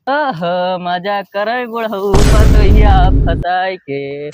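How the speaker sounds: loud slow gloating. Acted. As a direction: savor the win out loud. Gloating over the fooled man.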